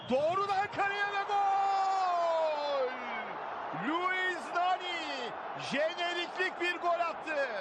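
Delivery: slow, drawn-out goal scream; screaming football commentator. Real, not acted. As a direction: shout the goal, stretching each word. Free kick goal call. (çığlık atan futbol spikeri)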